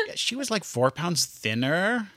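put-on breezy Valley Girl accent, lightly done. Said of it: "that's a nice Valley Girl accent you have".

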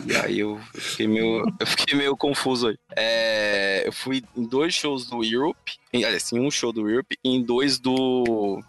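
slow and spaced-out, losing the thread; stoned. Real, not acted. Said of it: "caralho, eu tô brisadaço".

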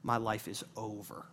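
quiet, low, doomed mutter; a kid's gloomy inner voice, hushed; mock despair. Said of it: "I'm just thinking".

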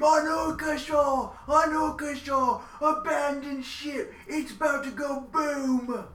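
high shouted warning to abandon ship; screaming. Acted. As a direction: yell it over the chaos, pitch way up. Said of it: "I scream".

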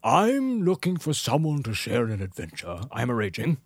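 grumpy Gandalf. Retold or imitated. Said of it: "He's supposed to look grumpy".

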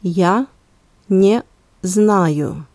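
Я, pause, then не знаю; word by word. Shown as a demonstration. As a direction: split "Я" off with a clear pause before "не знаю". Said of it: "let's repeat both sentences one more time".

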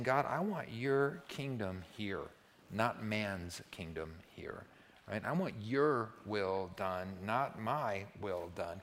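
slow, hushed, earnest prayer to God; sincere prayer. Shown as a demonstration. Pastor modelling a surrendered prayer, slow and hushed. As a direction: pray it slowly and humbly, meaning every word.

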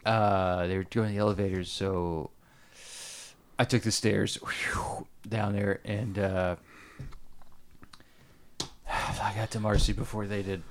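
breathless with sighs and puffs; out of breath. Real, not acted. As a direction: still winded, out of breath. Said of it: "Sorry, I'm a little out of breath".

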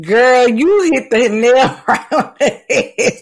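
slow, laughing through the words. Real, not acted. Cohost agreeing with her friend, laughing.

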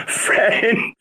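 high, squeaky mocking catchphrase; Inbetweeners impression. Quoting a comedy show at a pal who made friends, high mocking impression. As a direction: put on a silly high-pitched quote. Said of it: "Have you seen The Inbetweeners, no?".

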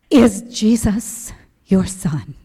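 slow, measured prayer question; reverent question. Retold or imitated. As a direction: ask it slowly, almost in awe. Hushed question put to God.

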